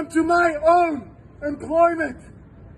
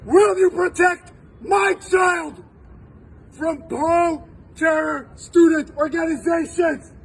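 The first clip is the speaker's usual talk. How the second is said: demanding question. Pretend. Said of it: "ask them one simple question".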